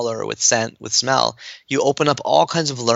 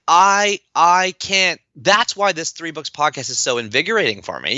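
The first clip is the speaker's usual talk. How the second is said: worked up, pitch raised then settling; invigorated; 5 semitones higher than usual. Real, not acted. Host tells guest why the podcast fires them up, invigorated. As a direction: burst out with real enthusiasm. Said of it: "You can hear it in my voice".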